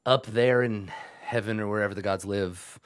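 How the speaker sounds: pompous goblin boss, lightly voiced; Yek the goblin. Goblin boss boasts of his perfection to visitors, pompous. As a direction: grandly savor each pause, lightly in character.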